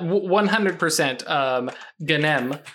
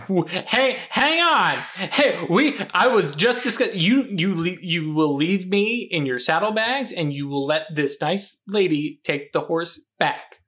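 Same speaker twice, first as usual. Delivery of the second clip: indignant storm spirit; 3 semitones higher than usual. Acted. Storm spirit protesting in play.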